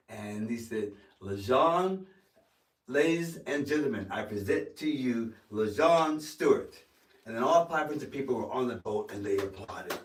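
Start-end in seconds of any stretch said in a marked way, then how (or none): 1.2-6.8 loud, raised announcer's proclamation; director announcing. Retold or imitated. Director introduces new actor to cast and crew, proclaiming loudly. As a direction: present someone to a big crowd, projecting.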